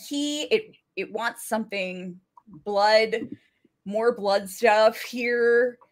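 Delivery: hesitant, piecemeal translating with long pauses; halting translation. Retold or imitated. Jackie struggling to translate French for the group, haltingly. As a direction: feel for each word, stretching the last. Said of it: "she's really trying here".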